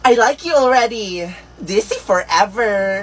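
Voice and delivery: affected. Acted. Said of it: "ang arte mo".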